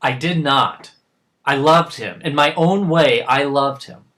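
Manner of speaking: loud, emphatic self-defence; indignant insistence on his love; insistent denial. Acted. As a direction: push back hard and loud. Father denies that he hated son.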